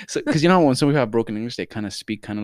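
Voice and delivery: ordinary delivery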